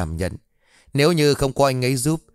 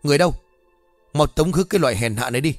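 angry scolding. Acted. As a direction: shout the beggar away in fury. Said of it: "rồi quát".

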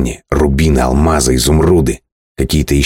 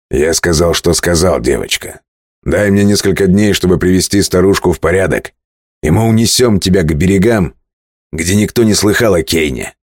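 brisk, raised captain voice; sea captain voice; 3 semitones higher than usual. Acted. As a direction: argue like a bold sailor. (голос капитана)

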